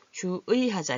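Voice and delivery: 주의하자 with a full ui after 주; written-form pronunciation. Shown as a demonstration. Teacher shows how it is written, careful ui. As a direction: sound out 주의하자 as spelled, ju-ui. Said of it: "이렇게 쓸 때는".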